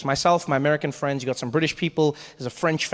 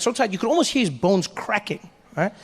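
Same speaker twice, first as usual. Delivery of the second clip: ordinary talk, nothing marked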